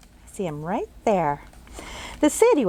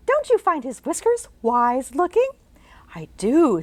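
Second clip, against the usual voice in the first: whispered exchange between the two; hushed whisper; 5 semitones higher than usual. Acted. Jane and Leo whispering about the cat's whiskers. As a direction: whisper it playfully.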